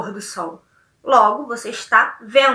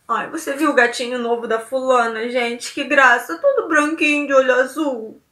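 cooing delight. Shown as a demonstration. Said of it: "Ou então".

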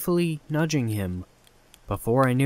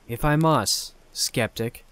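joking; slower than usual. Acted. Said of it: "he said jokingly".

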